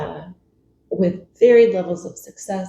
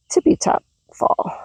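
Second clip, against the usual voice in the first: laughing; 9 semitones higher than usual. Real, not acted. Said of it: "Sorry about that".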